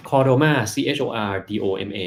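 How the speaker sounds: chordoma แล้วสะกดทีละตัว C H O R D O M A ช้าๆ; spelled out slowly. Shown as a demonstration. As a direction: spell each letter slowly and clearly. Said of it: "ลองค้นดูนะครับ". (สะกดทีละตัวอักษรช้าๆ ชัดๆ)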